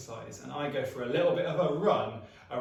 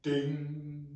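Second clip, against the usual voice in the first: lift ding; 5 dB quieter than usual. Shown as a demonstration. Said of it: "Now we step in the lift".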